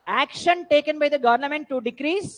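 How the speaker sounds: very slow, each word drawn out; dictating notes. Shown as a demonstration. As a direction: dictate so students can write it down. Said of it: "teacher dictates definition". (నోట్స్ dictate చేస్తున్నట్టు నెమ్మదిగా)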